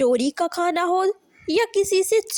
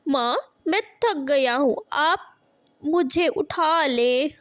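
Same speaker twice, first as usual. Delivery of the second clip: put-on whimpering tired child; 2 semitones higher than usual. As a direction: beg to be picked up, near tears. Tired child begs mother. (थकान से रोते हुए विनती)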